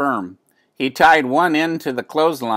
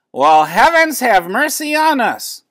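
much higher and louder, shocked neighbor lady; astonished exclamation; 11 semitones higher, 6 dB louder than usual. A narrator's reading. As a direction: gasp it out in disbelief. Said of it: "she exclaimed".

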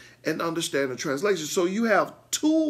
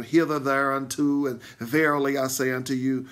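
put-on old Bible wording. Shown as a demonstration. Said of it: "We don't even talk like that anymore".

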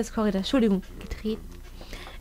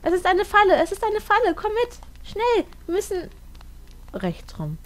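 urgent cry to the dog; urgent alarm; 8 semitones higher than usual. Real, not acted. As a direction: call the dog to flee. Warns dog of a trap.

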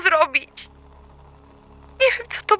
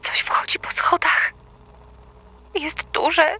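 whisper; 2 semitones lower, 4 dB quieter than usual. Acted. Hiding from intruder, whispering.

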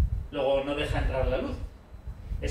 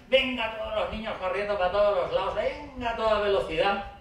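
higher, lively urging; excited commotion; 4 semitones higher than usual. Acted. Speaker evokes children running all over the playground, excited. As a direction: paint the playground frenzy.

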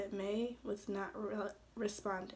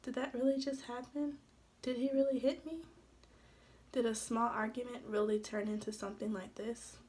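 mild disbelief. Acted. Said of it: "She thought to herself".

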